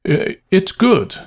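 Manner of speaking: high, slow, stammered assurance; wanting to be overheard. A narrator's reading. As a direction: declare it nervously for an unseen listener. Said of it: "in a loud, wanting to be overheard".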